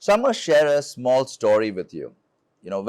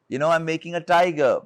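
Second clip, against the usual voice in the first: retold childlike enthusiasm, pitched higher; a touch of excited pride; bubbly excitement; 5 semitones higher, faster than usual. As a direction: recall an eager, passionate reply, lightly acted. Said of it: "excitedly looked at her, full of passion, bubbly".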